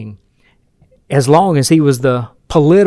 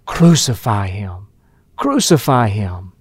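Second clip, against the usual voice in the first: mock crowd shout; 6 semitones lower, slower than usual. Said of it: "would be shouting".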